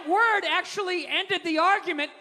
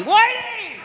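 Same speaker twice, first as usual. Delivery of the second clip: high, loud, drawn-out crow; gleeful exclamation; 8 semitones higher, 9 dB louder than usual. Pretend. Comedian reviving a word he loves, gleeful shout. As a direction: belt the word out with playful relish.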